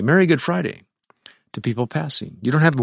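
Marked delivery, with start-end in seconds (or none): 0.0-0.8 high, bright mock holiday greeting. A mock passerby greeting on Good Friday, brightly higher. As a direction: sing it out like a cheery card. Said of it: "You don't say".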